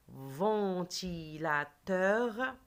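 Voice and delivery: "Ventilateur" very slow, each syllable held; "Ventilateur" in long linked syllables; stretched syllables. Shown as a demonstration. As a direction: model "Ventilateur" beat by beat for repeating. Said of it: "Répétez après moi".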